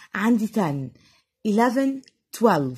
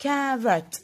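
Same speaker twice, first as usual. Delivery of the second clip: "carrot" in two beats, CA - RROT; teacher demonstrating the syllables of "carrot"; split into two syllables; 3 semitones higher than usual. Shown as a demonstration. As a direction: sound out both halves of "carrot". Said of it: "بنطقها على مرتين".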